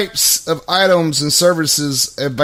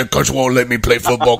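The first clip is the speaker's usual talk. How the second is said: mock whiny kid; 3 semitones lower than usual. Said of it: "kind of voice".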